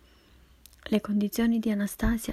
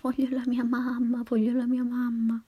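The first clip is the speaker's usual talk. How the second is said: put-on crying child; 4 semitones higher than usual. A narrator's reading. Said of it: "piangendo e gridando".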